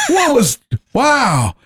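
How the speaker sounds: high-pitched, astonished retelling; retold amazement. Retelling own amazed reaction.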